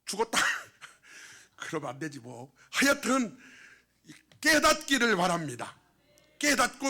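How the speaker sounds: loud, high-pitched preaching; urgent pulpit exhortation; forceful preaching. Real, not acted.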